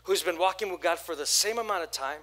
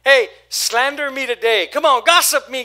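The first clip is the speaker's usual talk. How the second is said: much higher and louder mock plea to be hurt; mock invitation; 7 semitones higher, 14 dB louder than usual. Preacher mocking a victim inviting harm, loud and high. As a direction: ham it up, begging to be hurt. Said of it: "did you ask them".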